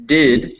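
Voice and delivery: Did with a short, relaxed I; short vowel. Shown as a demonstration. Teacher modelling the next syllable, "Did" with short vowel. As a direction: say "Did" with a lax vowel, not "deed". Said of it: "It's that s-, short E".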